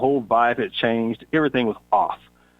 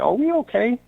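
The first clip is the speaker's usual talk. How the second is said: earnest check-in; 11 semitones higher than usual. Retold or imitated. Confronting coworker in her office.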